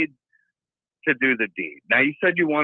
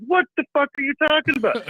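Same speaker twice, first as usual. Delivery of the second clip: higher, appalled question; incredulous; 12 semitones higher, 3 dB louder than usual. Retold or imitated. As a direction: ask it in shocked disbelief. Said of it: "I'm like".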